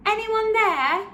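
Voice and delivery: high, loud searching call. Acted. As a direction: call into the distance. Voices calling from outside.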